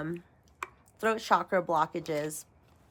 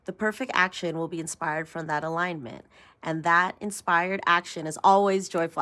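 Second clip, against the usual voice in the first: rereading the affirmation. Shown as a demonstration. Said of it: "Let me read this again".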